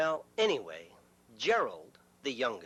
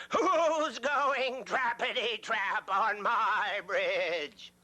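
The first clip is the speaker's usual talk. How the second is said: slow, drawn-out troll roar with a higher pitch; troll yell; 5 semitones higher, much slower than usual. Acted. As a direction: stretch every word like an angry troll. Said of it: "He yelled".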